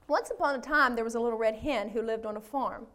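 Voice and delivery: storybook reading with measured phrases and pauses; read-aloud fable for a congregation; story narration. A narrator's reading. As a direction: read it aloud like a children's tale. Reads a children's story aloud.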